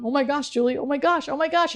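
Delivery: smiling, mildly giddy amazement building; building excitement. Retold or imitated. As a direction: pitch climbing with each repeat. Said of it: "getting louder and more excited".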